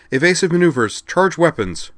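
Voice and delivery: loud high bark; barked orders. Acted. Commander barking battle orders at her crew, loud and high. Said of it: "Xenia barked".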